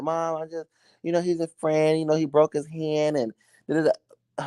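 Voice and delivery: high, softened excuse-making to mom; pleading daughter. Acted. Acted daughter explaining to mom.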